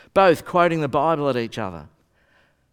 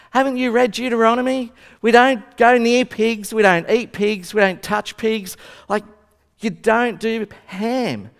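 loud, high, scandalised scolding; an appalled believer lecturing his friend on scripture; indignant outburst; 4 semitones higher, 4 dB louder than usual. Acted. Jew's outraged reply to ham pizza.

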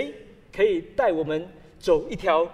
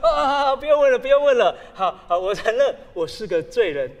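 hasty admission; 3 semitones higher, 8 dB louder than usual. Retold or imitated. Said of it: "那个人赶快说".

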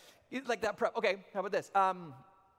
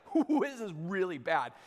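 fired up; 3 semitones lower than usual. Retold or imitated. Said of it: "I'm getting all fired up".

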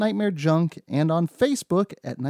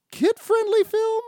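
ironic emphasis; slower than usual. Real, not acted. Ironic emphasis on kid-friendly.

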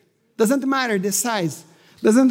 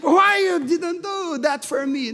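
mock complaint; 4 semitones higher, slower than usual. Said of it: "But I didn't say".

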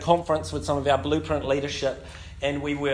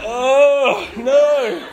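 embarrassed no; 10 semitones higher, 9 dB louder than usual. Retold or imitated. Embarrassed refusal, acted.

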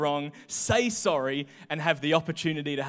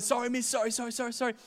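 glib, higher string of sorries rattled off; rapid insincere sorries; 4 semitones higher, 6 dB quieter, much faster than usual. Retold or imitated. Student cheekily rattling sorries at teacher, glib. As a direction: toss off the sorries with no meaning. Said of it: "I said".

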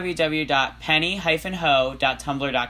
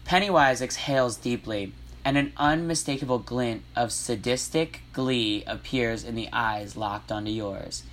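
composed, slightly low read-aloud; measured teacher narration; 3 semitones lower, 3 dB quieter than usual. Acted. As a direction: narrate it like a teacher reading to class. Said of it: "I'll use my teacher voice for the narration".

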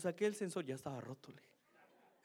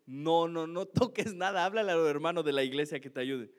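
firm warning; 6 dB louder than usual. Retold or imitated. Wife forbids him to touch.

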